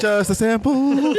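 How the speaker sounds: high, slow, laughing little plea; mock pleading customer; begging for a sample. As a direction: beg for a freebie through giggles.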